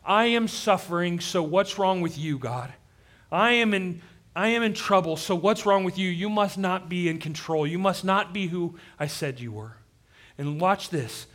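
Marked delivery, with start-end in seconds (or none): 0.0-9.8 higher, louder mock outburst at first, easing off; angry, frustrated. Preacher voices suffering Job accusing God, angry and frustrated. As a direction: act out a mild frustrated accusation. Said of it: "Job gets so angry and frustrated".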